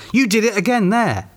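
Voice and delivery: high-pitched squabbling retort; accusing. A narrator's reading. Vera catches Peter exclaiming, accusing.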